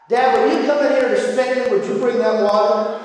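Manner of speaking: lightly voiced child making an innocent request; cheeky boy. Boy to dad before a spanking, lightly acted cheeky plea.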